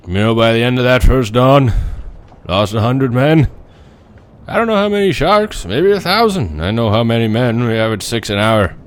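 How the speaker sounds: put-on old sailor's voice rising high and loud; Quint's angry outburst. Quint rages to the crew about the men lost. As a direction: bark out the death toll in anger. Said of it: "Tell me if I captured Robert Shaw".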